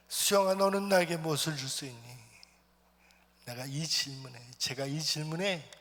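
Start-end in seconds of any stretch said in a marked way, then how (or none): 0.1-2.3 the same question pressed harder and louder; louder, urgent voice of God. Retold or imitated. God pressing the boy again at the retreat prayer, more forcefully. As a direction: repeat God's call so it rings out. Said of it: "하나님의 음성을 듣습니다".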